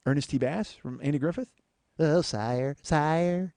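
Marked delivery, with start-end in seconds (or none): 2.0-3.5 Howard Morris impression again. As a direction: plead like a groveling courtier. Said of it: "That's not a bad Howard Morris".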